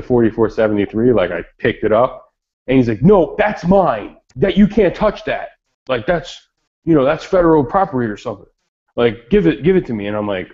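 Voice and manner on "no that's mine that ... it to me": a hint of a fussy clerk; mock gun dealer. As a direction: play the petty dealer claiming the form, a bit higher. Gun dealer voiced in a story.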